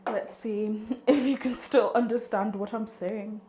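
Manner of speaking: talking with retainers in; wearing a retainer. Real, not acted. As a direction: speak around a retainer. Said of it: "with my retainers in".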